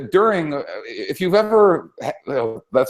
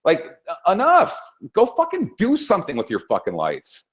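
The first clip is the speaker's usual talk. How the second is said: raised, high-pitched mock scolding, heated; mock Brando tirade; 7 semitones higher than usual. Brando scolding the whining singer, hammed-up angry yell. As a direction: shake him up like the Godfather slapping a crying singer. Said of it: "And he's like".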